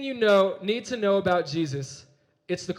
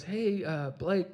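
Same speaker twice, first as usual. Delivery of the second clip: put-on shy hesitant girl; 4 semitones lower, 6 dB quieter than usual. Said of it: "so shyly and so hesitantly".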